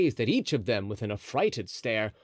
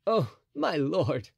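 musketeer voice; 4 semitones higher, slower than usual. A narrator's reading. D'Artagnan speaks.

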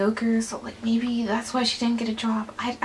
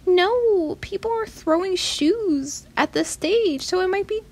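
publicist's warning; 8 semitones higher than usual. Retold or imitated. Publicist turning her away from the stage, high mock warning. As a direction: play the fussy publicist stopping her. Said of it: "the Publicist people were like".

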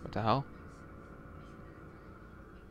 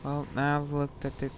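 whispering; 3 semitones higher, 4 dB quieter than usual. Real, not acted. Sneaking through a horror game.

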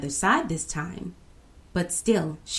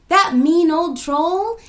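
scornful; 11 semitones higher, 8 dB louder, slower than usual. A narrator's reading. Girl scornfully describes troll.

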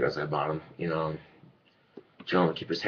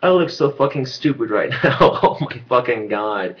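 laughing; 3 semitones higher, 5 dB louder than usual. Real, not acted. Laughing at own hair.

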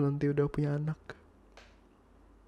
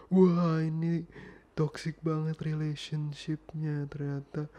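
mock amazement; much slower than usual. Boyfriend calling the relationship toxic mid-quarrel, sarcastically amazed. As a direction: exclaim in mock discovery, then drag it out.

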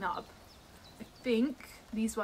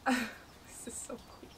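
slow awed whisper; 4 dB quieter, slower than usual. Real, not acted.

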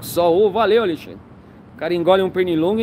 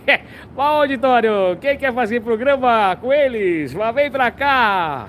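TV show host; 3 semitones higher, slower than usual. Pretend.

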